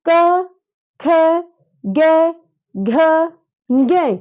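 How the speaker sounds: each letter said alone, slow and clear with pauses; letter demo. Shown as a demonstration. Teacher to students saying letters with her, clear slow letters. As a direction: model each letter for the class to repeat. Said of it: "आप मेरे साथ बोल के देखिए".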